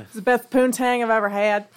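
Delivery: light Southern twang on a silly boast; Southern accent. Pretend. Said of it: "I went Southern with that".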